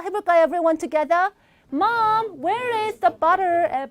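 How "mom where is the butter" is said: put-on higher, very slow kid's question; drawn-out child's call to mom; child asking mom. Shown as a demonstration. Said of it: "우리 엄마한테도 이런 거 잘 물어보죠".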